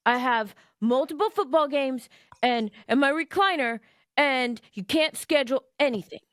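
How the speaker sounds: lightly imitated husband's voice; mock husband laying down the rules; David. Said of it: "I have a David voice".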